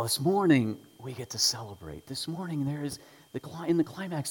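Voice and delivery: usual speaking voice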